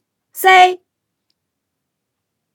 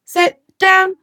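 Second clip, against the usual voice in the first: faster. Shown as a demonstration. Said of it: "Now do it faster".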